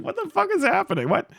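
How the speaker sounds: high, baffled, panicky; mock alarm, replaying his confusion. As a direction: act totally thrown by it. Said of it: "I was like".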